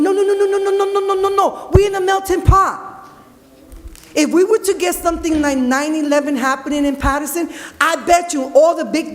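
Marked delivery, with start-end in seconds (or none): 0.0-2.9 high, insistent string of no's rising to a shout; emphatic no. Real, not acted. Speaker at council meeting rejecting division, rising insistent shout. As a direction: shut the idea down, building to a cry.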